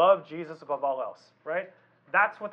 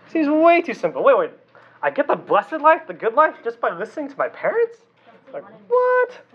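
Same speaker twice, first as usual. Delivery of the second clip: higher, louder, incredulous outburst; mock disbelief; 6 semitones higher, 3 dB louder than usual. Pastor voicing a skeptical teen, mock incredulous. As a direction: act the kid who thinks it's too good to be true.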